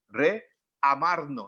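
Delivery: "Reamarnos" stretched long and slow; drawn out slowly. Shown as a demonstration. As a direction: spell out "Reamarnos" syllable by syllable. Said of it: "¿recuerdan?". ("Reamarnos" muy lento y alargado)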